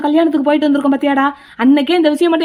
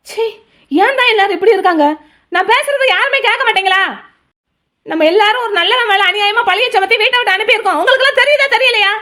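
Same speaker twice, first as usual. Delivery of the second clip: rising exasperation, pitch climbing higher; frustrated outburst; 4 semitones higher than usual. Acted. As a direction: scold everyone for not listening, building up. Ignored, pleading with silent family. (யாரும் கேட்காததால் எரிச்சலுடன் கத்துதல்)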